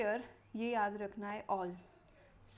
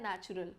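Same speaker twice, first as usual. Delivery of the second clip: "नेचुरल" set apart as the second key word; "नेचुरल" picked out for the learner; stress on नेचुरल; 3 semitones lower than usual. Shown as a demonstration. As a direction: give "नेचुरल" a light, deliberate emphasis. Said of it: "दो words पे stress देना है".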